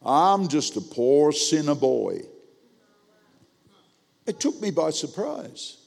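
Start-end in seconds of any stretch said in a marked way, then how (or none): 0.0-2.2 slow, drawn-out self-pitying line; imitating churchgoer. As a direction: lightly mimic a man's slow stock reply. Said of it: "this is what he said".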